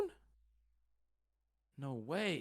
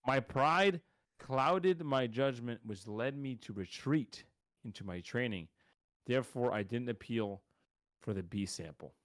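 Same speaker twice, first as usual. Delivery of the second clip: mock statement reading; 2 semitones lower than usual. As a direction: read it haltingly, letting each phrase sink. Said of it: "Does he talk like this?".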